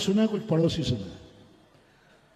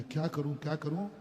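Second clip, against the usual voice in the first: worried inner thought; 4 semitones lower, 7 dB quieter than usual. Retold or imitated. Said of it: "माँ जी के मन में".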